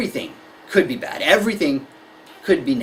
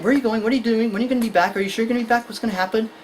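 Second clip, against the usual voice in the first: anxious questioning; 2 semitones higher, much faster than usual. Acted. Anxious child firing questions at parent.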